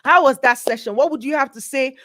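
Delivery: hype MC. Acted. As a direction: rouse the crowd like an emcee. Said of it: "switched back to your M C".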